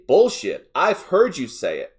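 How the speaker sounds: mildly heated retort; understated irritation, punching the first word; irate. Acted. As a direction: push back with a touch of anger. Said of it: "me getting irate say".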